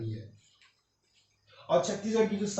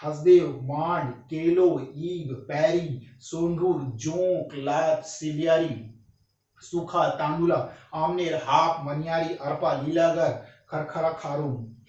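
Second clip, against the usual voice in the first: rapid revision list; 4 dB louder, slower than usual. Shown as a demonstration. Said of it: "sir इतना fast क्यों बोल रहे हैं".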